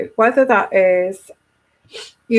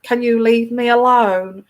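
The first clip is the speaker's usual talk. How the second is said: emotional plea. Shown as a demonstration. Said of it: "That's emotional".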